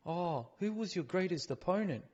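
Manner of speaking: slow, dopey mock fan voice; mock fan question, slowed and put on; mocking dumb fan. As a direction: drag it out like a clueless fan.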